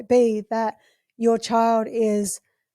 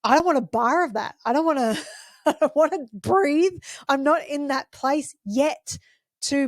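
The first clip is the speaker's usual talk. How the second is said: put-on mildly stubborn child refusing to breathe; child's nervous system. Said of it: "the kids' nervous systems are going".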